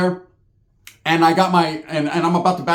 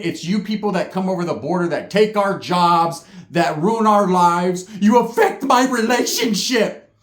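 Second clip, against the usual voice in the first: ranting woman. Retold or imitated. Angry woman's rant at him.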